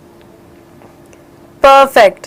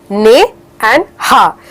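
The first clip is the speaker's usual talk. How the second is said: syllables split apart; 2 semitones lower, slower than usual. Shown as a demonstration. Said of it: "I can see two blocks in that word".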